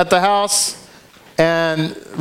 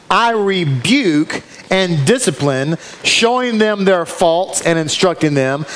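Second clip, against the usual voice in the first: slow, tender, deliberate reading; slow scripture reading; slower than usual. Acted. Preacher reading the loving rebuke to the congregation, slowly. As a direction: draw out each phrase lovingly.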